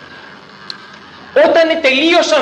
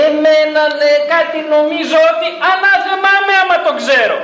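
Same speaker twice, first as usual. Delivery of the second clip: high, fast, frantic swearing; Peter's cursing denial; 7 semitones higher, faster than usual. Acted. Peter swearing to the servant girl he never knew Jesus, high frantic. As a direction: curse yourself in a flustered rush.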